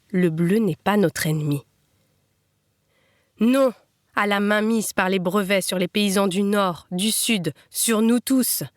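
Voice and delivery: measured poetry reading with pauses; poem recital. Acted. Reader reciting a poem in homage to the reapers, measured recital. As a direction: recite verse line by line, measured.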